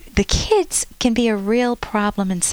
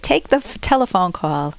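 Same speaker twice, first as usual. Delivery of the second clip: lightly imitated Viennese accent; a hint of a Viennese conductor's accent. Conductor jokes to the audience about the ringing phone, light Viennese accent. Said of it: "He said this in a Viennese accent".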